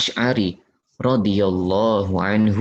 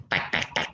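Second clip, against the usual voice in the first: soft vendor tapping; 8 semitones lower, 9 dB quieter, faster than usual. Shown as a demonstration. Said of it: "kayak tukang nasi goreng".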